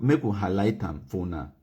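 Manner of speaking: ordinary talk, nothing marked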